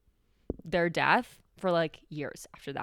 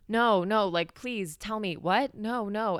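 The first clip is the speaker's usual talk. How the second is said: a touch of mom's scared pleading, slightly higher; mild imitated panic; 4 semitones higher, slower than usual. Mom on the phone hearing bad news, lightly imitated fear. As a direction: lightly act out the frightened no, no on the phone. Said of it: "And she was really scared".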